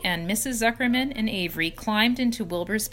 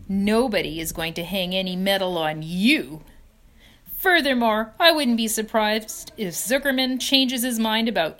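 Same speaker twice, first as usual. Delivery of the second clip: louder, smug and gloating; taunting; 2 semitones higher, 6 dB louder than usual. Acted. Rat taunting Wilbur about the prize, loud and smug. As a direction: needle the pig with bad news.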